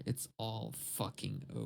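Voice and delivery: softly, as if all is lost. Pretend. Doom said low, then yelled.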